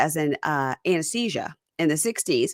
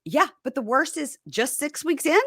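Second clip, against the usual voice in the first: husband; 9 semitones higher than usual. Retold or imitated. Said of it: "And he goes".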